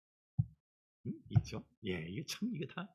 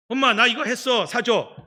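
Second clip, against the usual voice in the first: put-on whiny child; 7 semitones higher, 9 dB louder than usual. Child demanding promised reward.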